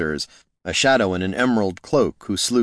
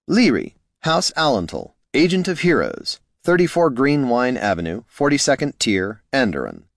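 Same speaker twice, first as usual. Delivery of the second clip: higher showy reading of a business card; elf agent's card; 5 semitones higher than usual. Acted. Gorm reading Leary's card, higher showy voice. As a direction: read it like a self-promoting agent.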